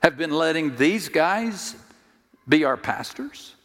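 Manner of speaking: shocked crowd. Retold or imitated. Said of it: "looking at them saying".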